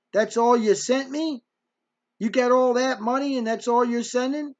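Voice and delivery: mock-indignant mom; indignant complaint. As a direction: protest at being short-changed. Mother disputes her share.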